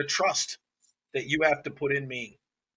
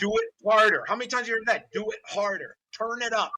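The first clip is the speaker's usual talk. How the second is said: mock trainer orders; 5 semitones higher than usual. Mimicking bad trainers' instructions.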